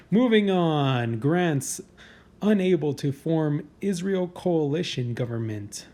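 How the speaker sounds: slow, deliberate countdown announcer read; drawn-out headline announcement. Acted. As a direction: announce the entry like a list show host. Reads list headline.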